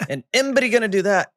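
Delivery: imitating Moyes in a broad Glaswegian accent. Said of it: "Moyes kept saying".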